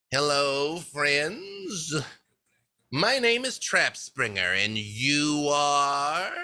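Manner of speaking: lightly voiced gnome, drawn-out questioning close; a touch of a chipper little gnome host; gnome greeting. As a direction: greet the strangers with slow, curious charm. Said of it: "and she's like".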